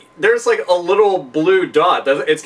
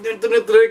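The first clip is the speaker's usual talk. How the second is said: put-on drunk marching hum; 5 semitones higher than usual. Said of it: "this is how you walk when you're drunk and excited".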